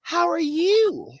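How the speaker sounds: sugary white lady. Retold or imitated. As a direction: coo it like a lady talking to a toddler. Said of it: "The white lady bends down".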